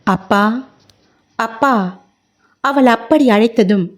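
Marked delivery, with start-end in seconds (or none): 0.0-2.0 overcome with emotion. A narrator's reading. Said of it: "உணர்ச்சி பொங்கியது".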